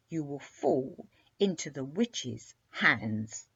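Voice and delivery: slow, ominous serpent growl. Acted. Sea serpent growling a warning to the princess. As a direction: warn her darkly. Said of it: "growled the sea serpent".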